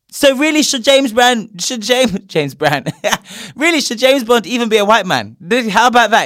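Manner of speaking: incredulous. Real, not acted. Mocking racists with rhetorical question.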